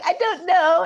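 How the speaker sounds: high, loud mimicking voice; mocking. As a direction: parrot it back in a mocking high pitch. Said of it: "mocking me".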